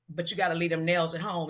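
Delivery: low-voiced imitation of the star. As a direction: quote him in a low, understated voice. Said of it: "Prince stuck his head in the door".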